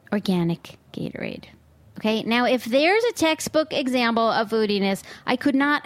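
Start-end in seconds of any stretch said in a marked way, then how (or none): 0.1-1.4 organic Gatorade said low and soft, flat with contempt; deadpan disgust. Shown as a demonstration. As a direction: drop it low in disbelief.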